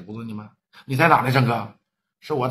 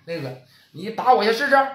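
taunting dare; 5 semitones higher than usual. Acted. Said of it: "叫板".

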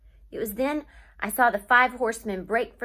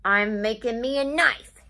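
hollered; 3 dB louder than usual. Acted. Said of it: "he hollered".

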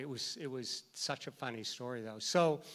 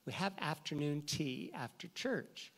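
insistent church lady; 4 semitones higher than usual. Retold or imitated. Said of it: "And then one lady says".

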